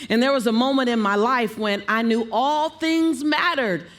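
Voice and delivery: high verbal highlight. Shown as a demonstration. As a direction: pitch climbing up on "all things mattered". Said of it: "play on all the keys".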